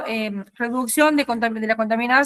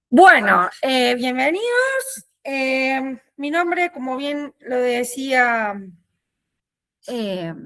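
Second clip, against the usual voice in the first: numb mouth; much slower than usual. Real, not acted. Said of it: "tengo la cara anestesiada".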